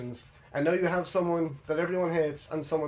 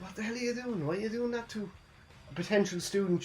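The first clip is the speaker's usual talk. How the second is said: mock indignant protest; 6 semitones higher, 5 dB quieter than usual. Acting out Byron confronting Kiana.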